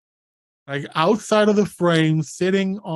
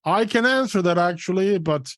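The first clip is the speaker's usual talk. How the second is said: muffled; faster than usual. Acted. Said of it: "you hear a muffled".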